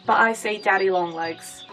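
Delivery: normal talking voice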